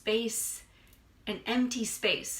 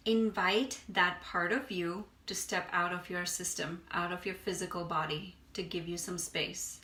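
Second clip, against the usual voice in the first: unhurried meditation guide, long pauses between phrases; guided meditation. Acted. Meditation teacher guiding listeners to release stress, unhurried guided meditation. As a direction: ease them through breath and body, leaving space.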